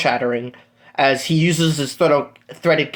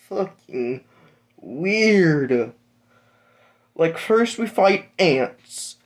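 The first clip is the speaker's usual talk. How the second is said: rising from puzzled to shrill outrage, much higher; exasperated rant; 6 semitones higher than usual. Acted. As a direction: build an exasperated rant until the voice squeaks high. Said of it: "Deku's just like".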